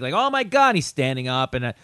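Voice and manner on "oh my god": high-pitched mock outcry; making a stink. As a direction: imitate an upset audience member's loud fuss. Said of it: "he's making a stink".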